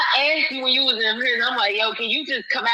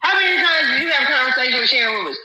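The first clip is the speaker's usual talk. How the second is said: heated questioning. Real, not acted. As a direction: hammer him with questions, voice cracking. Heated live argument with guest.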